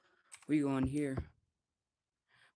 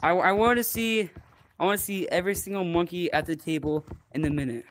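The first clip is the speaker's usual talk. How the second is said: loud gung-ho soldier; 4 dB louder than usual. Pretend. Boot camp drill sergeant orders.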